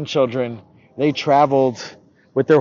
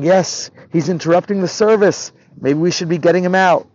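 higher, fussy agreement; disapproving chorus; 4 semitones higher, 4 dB louder than usual. Acted. People in shul siding against the boy, disapproving. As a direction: chime in with the complaint.

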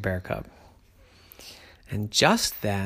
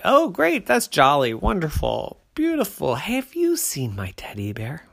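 high, excited little bear cub voice; a bright eager cub asking around; 6 semitones higher, 5 dB louder than usual. A narrator's reading.

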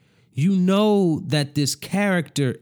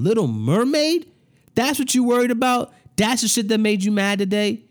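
incredulous heated rant; 6 semitones higher than usual. Real, not acted.

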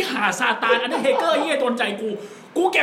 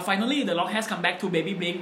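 slow, drawn-out wrestler mic call; The Rock catchphrase; 2 semitones lower, much slower than usual. Retold or imitated. Boy at a fan meeting imitating The Rock, slow drawn promo. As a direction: stretch every word like a wrestling promo. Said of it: "ให้พูดว่า".

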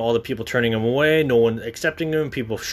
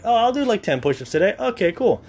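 lazy self; 10 semitones higher than usual. Retold or imitated.

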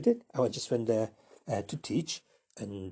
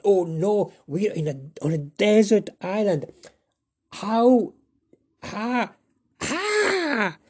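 much higher, ending in a cry; panicked scream; 10 semitones higher, 4 dB louder, much slower than usual. Acted. Mortimer panicking on a desert island, high screaming. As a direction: shriek in panic at being stranded. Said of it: "So it was a scream".

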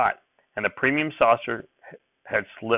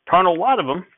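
high, loud flustered reply; agitated old farmer; 9 semitones higher, 6 dB louder than usual. A narrator's reading. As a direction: brush it off in a dither. Grandfather agitated, hurrying.

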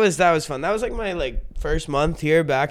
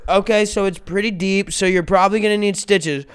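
matter-of-fact unruffled mother; imitating a composed mom; calm mom. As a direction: deliver it evenly, as if no emergency. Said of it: "she's just so calm".

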